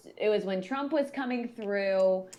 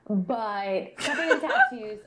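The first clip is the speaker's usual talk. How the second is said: laughing whisper, slow; 9 dB louder, slower than usual. Real, not acted. Telling her friend about his tattoos, whispered laugh. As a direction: breathe it out with a giggle. Gossiping about the hot guy.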